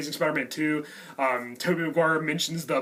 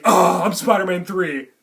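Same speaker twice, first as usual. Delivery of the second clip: mock dejected; 6 dB louder than usual. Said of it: "Andrew Garfield still thinks, "Oh, I'm lame".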